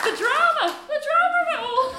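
high, loud, laughing delight; excited exclaim. Real, not acted. Host reacting to the story, laughing and loud. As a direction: gush over the story. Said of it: "host exclaims".

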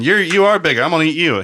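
a hint of a dumb troll; lightly voiced hungry troll; dopey cartoon bellow. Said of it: "The troll says".

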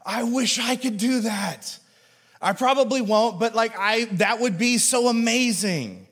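wistful longing. Retold or imitated. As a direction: sigh it like a wish you won't act on. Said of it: "you were just like".

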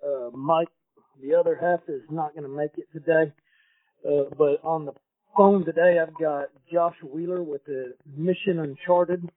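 worn tape copy sound; muffled, degraded audio; bad recording quality. Real, not acted. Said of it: "Please excuse the audio quality".

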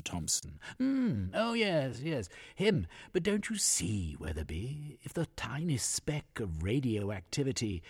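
a gleeful eccentric inventor plotting; eccentric old scientist. Acted. Voices eccentric scientist Christopher.

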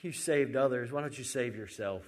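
mildly mocking taunt, loud at the start; retold jibe with a punchy opening. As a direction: jeer it, then ease off. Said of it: "mocking him and saying".

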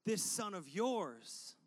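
slow, biting "This son of yours"; pointed scorn. Retold or imitated. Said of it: "He's angry".

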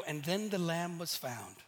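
a cute happily-ever-after, gently mocked; sweet storybook voice fading out on the last word; mock fairy-tale ending. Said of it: "stories that ends up like".

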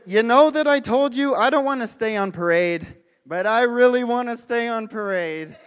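loud, high, beaming delivery; excited quote. Retold or imitated. Jokic thanks the parade crowd, loud and overjoyed. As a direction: belt it out like a thrilled champion. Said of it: "He said".

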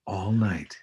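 lightly put-on late-night DJ; low radio voice. Guest riffing on a late show, mock radio voice. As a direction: play a late-hour radio host. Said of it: "Are we doing our low radio voices?".

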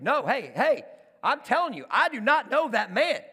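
loud, high, irritated protest; annoyed denial. Acted. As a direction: push back hard, acting annoyed. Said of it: "starts to get a little bit more annoyed".

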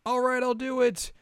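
high, determined; high girl voice. Retold or imitated. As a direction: commit brightly. Voicing Kagome.

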